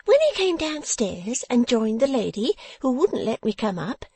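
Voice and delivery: high, piping, gloating delivery, slowing for the message; spiteful satisfaction. A narrator's reading. Dressmaker delivering the attacker's compliments, spitefully satisfied. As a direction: relish every word of the message. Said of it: "said it with such spiteful satisfaction".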